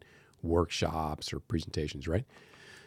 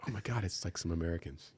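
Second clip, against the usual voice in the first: put-on unimpressed girls; 8 dB quieter than usual. Mimics girls' unimpressed reaction.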